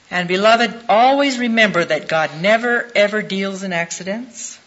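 1 rising exhortation. Real, not acted. Preacher exhorting the congregation.

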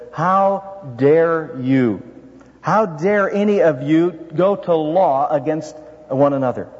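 slow, drawn-out reproach; "How dare you" stretched out, each word weighed; a measured preacher's rebuke; stern rebuke. Retold or imitated. Preacher voicing Paul's rebuke.

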